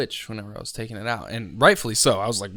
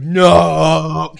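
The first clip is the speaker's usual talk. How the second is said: sudden loud shout, higher; retold shout; 5 semitones higher, 16 dB louder than usual. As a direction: bark a sharp No at the trainee. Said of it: "and he's like".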